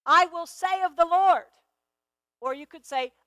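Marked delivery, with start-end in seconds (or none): 0.1-1.5 "Lord" given extra weight at the end; stress on Lord. Shown as a demonstration. Preacher demonstrates stressing different words in scripture, stress on "Lord". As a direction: lean on "Lord" as the line closes. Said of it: "I'll stress different words".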